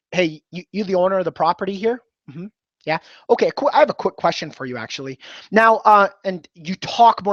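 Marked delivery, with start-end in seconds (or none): 0.1-5.2 assertive. Shown as a demonstration. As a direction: sound like someone with authority. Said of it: "Assertive is".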